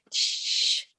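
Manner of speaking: soft unvoiced shush; hush. Teacher hushing to mimic rain sounds.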